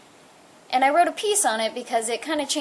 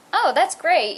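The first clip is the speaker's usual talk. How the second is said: bright eager burst, raised high; suddenly pleased, pitch jumps up; excited; 8 semitones higher, 6 dB louder than usual. Retold or imitated. Retold happy reaction to holiday.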